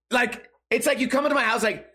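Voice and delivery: usual speaking voice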